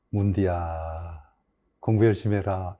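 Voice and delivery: low, soft, very slow fond nudge in Gyeongsang dialect; affectionate Gyeongsang scolding. Shown as a demonstration. Teacher lovingly telling students to study, low and slow. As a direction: drawl it out like a fond Busan teacher. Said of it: "정말 좋아하고 사랑합니다".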